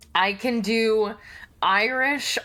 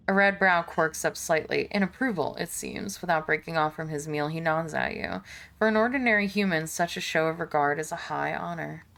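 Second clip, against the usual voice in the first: measured, low-key storyteller read; game narration; 3 semitones lower, 3 dB quieter, faster than usual. Acted. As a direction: read the scene out evenly and softly. Reads game narration aloud.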